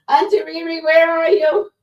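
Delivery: high, loud calling auntie; Auntie Riri voice. Acted. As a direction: shout for her like a loud auntie. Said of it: "in Auntie Riri voice".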